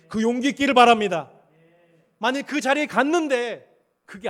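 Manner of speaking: loud, high, rising preacher's cry; full-force preaching. Acted. Pastor urging the congregation, preaching loudly. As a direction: preach it out with growing fire.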